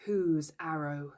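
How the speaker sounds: slow, measured, severe question; stern demand. A narrator's reading. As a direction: demand a confession from the band. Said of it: "he demanded sternly".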